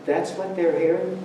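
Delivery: a touch of dismayed surprise, rising questions; mild surprise. Retold or imitated. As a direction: realize with light shock how you sound. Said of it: "and you go".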